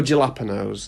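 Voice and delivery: jalapenos with an English j; anglicised mispronunciation. Shown as a demonstration. The version avoided at Subway, jalapenos fully anglicised. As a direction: say jalapenos as "ja-LAP-enos". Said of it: "I don't go jalapenos".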